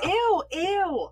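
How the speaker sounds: high disgusted ew. Real, not acted. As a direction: recoil in disgust. Disgusted by spider guts.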